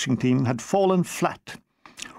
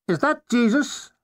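posh caller voice; 6 semitones higher than usual. Acted.

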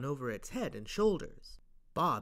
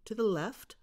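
ordinary delivery, nothing marked

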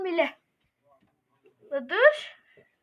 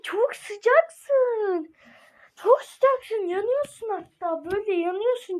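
excited; 4 semitones higher than usual. Real, not acted. Hot-cold game, building.

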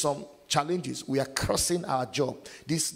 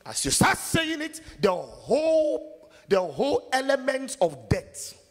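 rising emphasis; 10 semitones higher, 4 dB louder than usual. Acted. Preacher builds to a dramatic peak.

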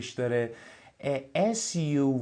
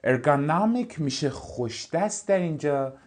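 ordinary talk

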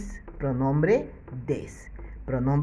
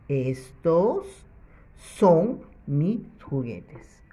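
slow repeat; much slower than usual. Shown as a demonstration. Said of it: "para que diga".

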